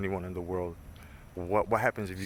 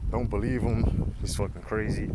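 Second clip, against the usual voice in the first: mocking sceptic voice; 2 semitones higher than usual. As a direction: sneer like a dismissive critic. Mocking critics' voice.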